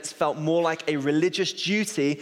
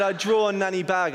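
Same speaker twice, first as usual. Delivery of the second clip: lightly voiced toddler, pitched up; two-year-old daughter; 4 semitones higher than usual. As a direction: imitate a toddler owning up, a little higher. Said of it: "She's now two years old".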